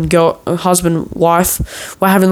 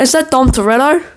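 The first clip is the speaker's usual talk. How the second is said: higher, quicker repeat of the call; calling again; 7 semitones higher than usual. Retold or imitated. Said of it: "I'm like".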